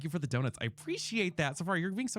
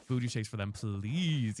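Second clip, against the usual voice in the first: tentative, lower-pitched Southern drawl; attempted Southern accent; 7 semitones lower, slower than usual. Shown as a demonstration. Streamer trying an accent on request, attempted Southern accent. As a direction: try a Southern accent, not very well. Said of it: "I can't really do a Southern accent very well".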